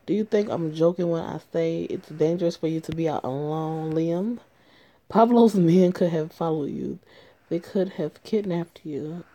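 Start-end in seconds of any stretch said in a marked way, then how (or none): 5.1-9.2 angry yell. Acted. Boyfriend scolding her for going out alone, an angry yell. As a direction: raise your voice at her, furious. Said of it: "Please don't yell at me".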